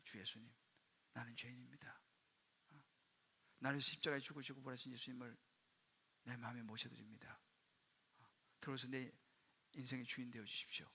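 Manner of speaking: hushed, low prayer in short phrases; quiet, reverent prayer voice; leading prayer. Retold or imitated. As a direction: pray softly, leaving room to repeat. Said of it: "이 기도를 내가 했어요".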